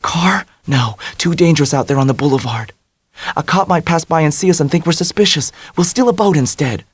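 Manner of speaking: high, quick plan; Dell voice. A narrator's reading.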